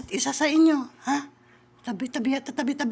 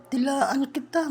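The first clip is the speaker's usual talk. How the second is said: slow, drawn-out Dilaan kita; lingering mock threat; slow playful threat; slower than usual. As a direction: stretch out Dilaan kita teasingly.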